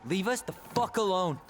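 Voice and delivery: loud angry order. Acted. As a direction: throw him out. Ordering rival away.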